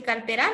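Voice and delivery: cartera said as carte-RÁ; final syllable of cartera stressed; wrong stress on RA. Shown as a demonstration. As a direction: land the weight of cartera on ra. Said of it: "no es la palabra correcta".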